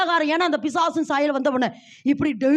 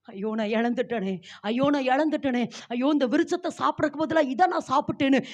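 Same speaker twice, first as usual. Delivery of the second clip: wailing lament; 4 dB quieter than usual. Acted. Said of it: "அழுது இருக்கிறாளாம்".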